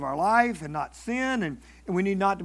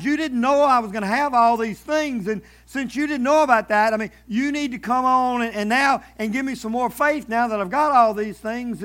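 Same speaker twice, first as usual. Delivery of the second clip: louder, rushed list of grievances; mock complaint to God; 4 dB louder than usual. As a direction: pile up the woes in a mock whine. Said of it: "It's almost like going to God and saying".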